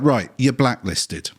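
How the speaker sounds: slow, deliberate pronouncement; doctor banning the patient, slow and deliberate; doctor's verdict. Retold or imitated. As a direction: lay down the ban slowly. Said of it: "he's just like".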